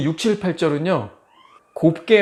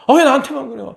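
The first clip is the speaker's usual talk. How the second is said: high, loud whine of protest; irritated complaint; 11 semitones higher, 6 dB louder than usual. Acted. Believer grumbling to God about trials, irritated. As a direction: burst out resentfully at unfair treatment. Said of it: "막 원망하고 불평하고 짜증내고".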